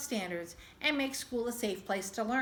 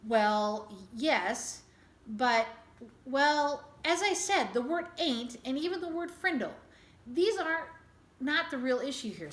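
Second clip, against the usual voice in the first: stumped and flustered. Acted. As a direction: scramble for words, caught off guard. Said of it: "That stumped them all".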